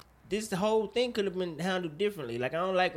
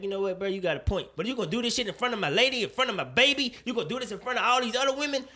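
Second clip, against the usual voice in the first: indignant retort; 5 semitones higher than usual. Retold or imitated. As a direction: call him out in front of everyone. Imagined retort, getting heated.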